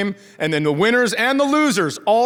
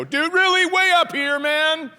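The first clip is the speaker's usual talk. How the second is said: incredulous; 8 semitones higher, slower than usual. Retold or imitated. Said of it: "and I go".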